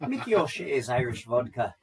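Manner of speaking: a light, hammed-up Irish accent for a vodka promo. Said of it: "You should do one with an Irish accent".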